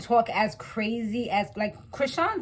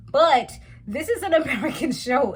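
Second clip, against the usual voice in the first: laughing; 4 semitones higher, 4 dB louder than usual. Real, not acted. Laughing mid-rant about Spanish.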